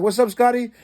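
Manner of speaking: calling out. Retold or imitated. Calling out to Scotty riding past.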